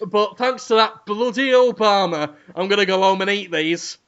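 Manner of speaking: badly faked celebrity voice; a rock singer. Cat buyer explains himself to camera, loose impression. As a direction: have another loose go at the impression. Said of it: "I can't do Lemmy's voice".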